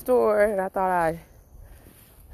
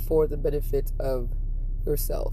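solemn musing. Real, not acted. Vlogger describing love to viewers, solemn and halting. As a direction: weigh each phrase like improvised poetry.

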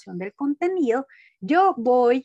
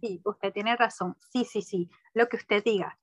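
meek, slightly softened yes-saying; submissive; 2 semitones lower, 3 dB quieter than usual. Retold or imitated. Employee agreeing with superiors out of fear, submissive. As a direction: give in politely, trailing softer. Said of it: "me convertía en muy sumisa y decía".

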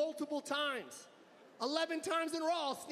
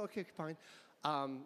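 slow, hesitant excuse, quieter; faked ailment; 9 semitones lower, 5 dB quieter, slower than usual. A maskless man to a security guard, slow hesitant faked excuse. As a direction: drag it out like inventing a lie. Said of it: "I go".

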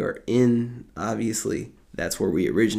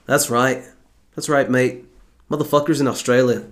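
mock Australian accent; 3 semitones higher than usual. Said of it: "talk Australian".

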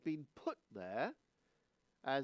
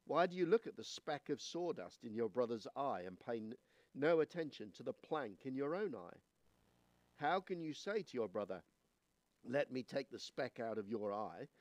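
measured, solemn Bible reading; scripture reading. Acted. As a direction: read the verses with weight and care. Reads the scripture passage aloud.

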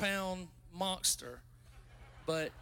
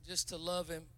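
softly repeating the call to love; tender; 2 semitones lower, 5 dB quieter than usual. Real, not acted. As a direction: ease it down gently.

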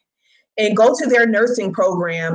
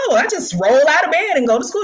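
higher, quick imitation of a carefree friend; breezy friend; 5 semitones higher, faster than usual. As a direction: toss it off quickly, as a friend would. Friend's breezy reply, retold.

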